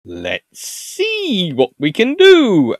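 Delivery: slow, high, sing-song musing; acted scheming Dutch. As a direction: stretch it out as if plotting. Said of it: "And the Dutch go".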